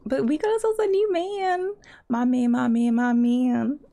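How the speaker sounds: a chanted little victory cheer; excited celebration. Real, not acted. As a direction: crow about it happily. Celebrating new boyfriend.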